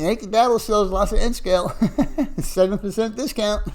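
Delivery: laughter breaking in between phrases; amused laughing. Real, not acted. Streamer plugging the hobby shop's N scale to a viewer, laughing.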